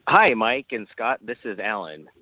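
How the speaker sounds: ordinary talk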